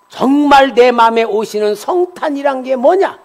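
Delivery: high, loud pulpit exclamations; full-force preaching. Real, not acted. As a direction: drive the lesson home at a shout.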